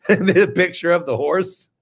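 real laughter breaking into the words; laughing. Real, not acted. Doctor showing viewers the horse picture, laughing. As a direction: crack up while talking, pitched a little up.

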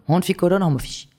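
ordinary delivery

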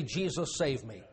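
soft, low, hushed prayer; humble plea. Retold or imitated. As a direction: beg quietly on bended knee. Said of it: "get on their knees and say".

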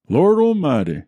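high shocked shout. Acted. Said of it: "I remember Jake shouting".

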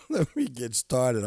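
high giggle spilling into the words. Real, not acted. Host trying to get the show started, giggling like a kid. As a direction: try to start through a real giggle. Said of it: "I'm giggling like a little kid".

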